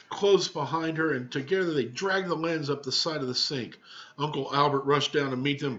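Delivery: lively read-aloud storytelling; story narration. A narrator's reading. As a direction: read it to the class like a picture book.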